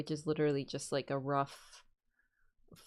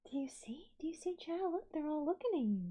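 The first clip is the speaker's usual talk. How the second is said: soft high whisper with a gasp; hushed whispered wonder to the kitten; 8 semitones higher, 7 dB quieter than usual. Real, not acted. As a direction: breathe it like a secret to the cat. Whispering to cat on stream.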